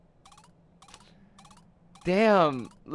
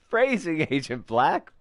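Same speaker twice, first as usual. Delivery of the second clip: Phrasing with a wry, dry tone; mock correction; 4 dB louder than usual. Player teasing Agent Black's wording, dry and wry. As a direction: tease the agent about his wording. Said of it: "bonus points for using".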